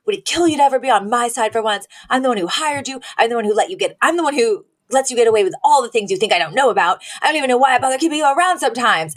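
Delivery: a hammed-up defensive outburst building to a crescendo; mock yell. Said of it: "and he yells at Niles".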